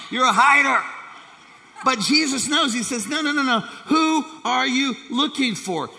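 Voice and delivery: high, loud preaching climax; preaching at full force. Real, not acted. Preacher to congregation, high and loud. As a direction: hit it hard and lift the pitch.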